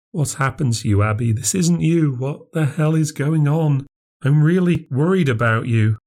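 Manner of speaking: reach out, worried; lightly voiced sister, anxious. Claire worried about Abby.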